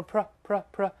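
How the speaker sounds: "pr-" clipped and repeated three times; sounding out a syllable. Shown as a demonstration. Teacher drills the sound of "pr-" in proceed, repeated crisply. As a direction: tap out "pr-" alone, no vowel after it. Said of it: "P R O在这里读成pr".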